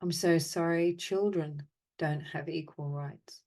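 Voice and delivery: measured phrases with long silences between; guided apology meditation. Acted. Meditation leader offering apologies for the world's imbalance, measured and solemn. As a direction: recite each apology evenly, leaving space to feel.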